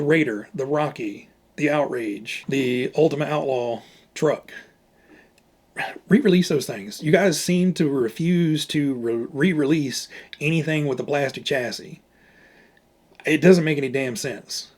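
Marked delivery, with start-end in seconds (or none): 6.1-14.7 angry rant. Real, not acted. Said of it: "sorry about that rant".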